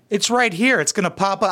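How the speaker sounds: mock YouTuber. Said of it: "be a good YouTuber and be like".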